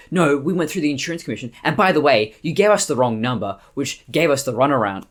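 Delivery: heated retort, short of a scream; retold angry rant. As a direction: imitate someone going off at a caller. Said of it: "she's just screaming over the top".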